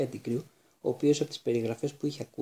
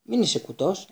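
higher, louder panicky cry; panicked exclamation; 6 semitones higher, 4 dB louder than usual. A narrator's reading. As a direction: blurt it out in a panic. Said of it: "αναφώνησε πανικόβλητη". (πανικόβλητο επιφώνημα, ψηλότερα και δυνατά)

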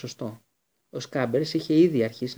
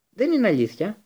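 much higher, louder shout; 8 semitones higher, 6 dB louder than usual. A narrator's reading. Harry shouts his denial at Lupin, higher and louder. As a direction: yell it in denial. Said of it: "φώναξε ο Χάρη".

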